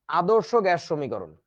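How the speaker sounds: deliberate, slow naming of the term. Shown as a demonstration. Teacher introducing the equation's name, slow. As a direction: say the term slowly. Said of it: "এইটাকেই বলে হচ্ছে".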